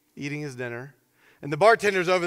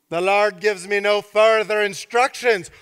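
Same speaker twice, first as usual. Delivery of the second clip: louder, put-on character voice; boxer-pastor's declaration; 2 semitones higher, 5 dB louder than usual. Boxer pastor to the bartender, mock-solemn declaration. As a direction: deliver it as the line before a punch.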